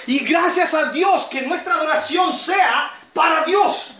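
emphatic preacher in full swing; prédica enérgica. Real, not acted. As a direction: preach it firmly, driving each phrase home. Predica con fuerza. (predicación enérgica y enfática)

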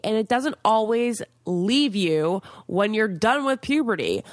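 upbeat sponsor read. Acted. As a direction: sell it like a host ad. Sponsor read for acne product.

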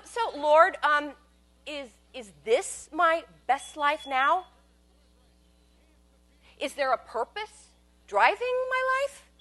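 a hint of sarcastic piety, drawn out; mock earnest prayer. Asking God in imagined counseling, mock-earnest. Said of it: "What would I ask him?".

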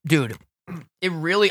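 talking while crunching ice; chewing while talking. Real, not acted. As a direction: mouth full of ice. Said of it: "I'm sorry, I'm chewing in all of your ears".

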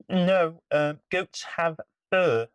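high, small, timid creature; tiny spider voice. Acted. Spider corrects troll.

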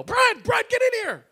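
imitating a yell. Wife calling husband from living room, imitated yell. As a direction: call him urgently from the next room. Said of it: "I hear Amy from the living room yell".

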